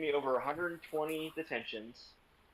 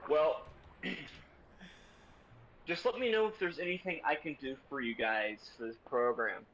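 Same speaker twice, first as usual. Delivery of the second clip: pitched-up mock principal, throat-clear then smarmy. Principal offering help to the class, mock smarmy voice. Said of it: "delivers this wonderful line of".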